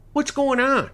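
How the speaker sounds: high, loud bewildered woman; groggy woman voice. Acted. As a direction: ask it freshly woken and confused. Sleepy wife voiced.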